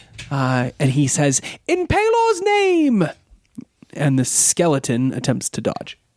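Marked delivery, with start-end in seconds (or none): 1.7-3.1 very high-pitched, excited, enthusiastic cry. Urki Timbers, on the hero's shoulder, answers the hero's spell with an excited cry. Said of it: "lets loose a cry of excitement".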